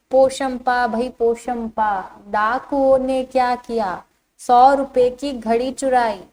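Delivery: put-on measured, evenly chanted children's rhyme; rhyme recitation. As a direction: recite a game rhyme line by line. (बच्चों के खेल की कविता का पाठ)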